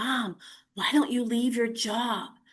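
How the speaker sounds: mock whisper. Retelling a daughter's question while lying in bed: imitating a whisper. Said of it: "she whispers".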